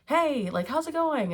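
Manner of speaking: high, chirpy "hey, how's it going"; mock cheery greeting. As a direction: breeze in like an overfriendly stranger. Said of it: "the Knight of Wands feels like".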